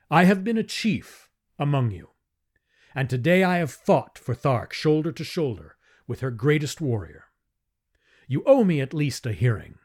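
rally the chieftains; a hero demanding a fair hearing; impassioned plea. Acted. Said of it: "I cried".

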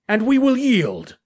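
loud, drawn-out hail; calling back. Acted. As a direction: call out the surrender slowly. Shouted parley in the dark.

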